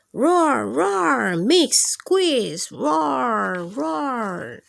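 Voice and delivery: loud roars that fade at the end; dinosaur roar. Acted. Reading to kids, dinosaur roars over lemonade. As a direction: roar big, then let it die away.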